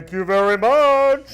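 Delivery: loud, slow, put-on accent; put-on foreign voice. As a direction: thank them in a lofty put-on voice. Playing the Saudi president.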